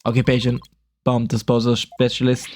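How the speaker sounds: flat, even synthesized speech; robot voice. Acted. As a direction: speak like a text-to-speech machine. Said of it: "what a strange robotic voice you have".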